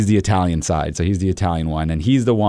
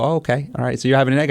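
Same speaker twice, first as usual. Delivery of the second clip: higher, mock-accepting tone; feigned innocent agreement; sarcastic; 6 semitones higher, faster than usual. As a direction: play along with light sarcasm. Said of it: "sarcastic line of questioning coming his way".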